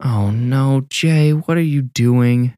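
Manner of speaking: high, slow whine; dragged-out whiny plea; whining. A narrator's reading. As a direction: drag it out in a complaining whine. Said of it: "Kelsey whined".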